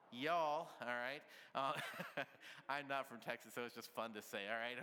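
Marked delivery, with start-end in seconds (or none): 0.1-0.7 Texan y'all. Shown as a demonstration. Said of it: "if you're Texas, how would you say it".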